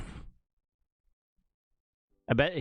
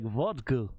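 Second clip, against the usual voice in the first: rough attempt at a Russian accent; mock Russian accent. Shown as a demonstration. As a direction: say it as a stock Russian would. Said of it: "how do Russians sound?".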